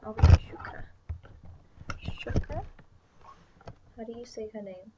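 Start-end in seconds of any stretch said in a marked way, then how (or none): 0.0-2.6 much higher and louder delighted cry; excited squeal. Real, not acted. Spotting the character Shukra on screen, delighted squeal.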